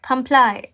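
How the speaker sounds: "Comply." as kuhm-PLY, stress on PLY; repeating after the app. Shown as a demonstration. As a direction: echo the app's "Comply.". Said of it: "It's comply".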